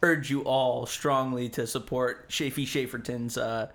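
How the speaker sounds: mock-earnest sarcastic plug; deadpan fake endorsement. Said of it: "It's, it's sarcasm, folks".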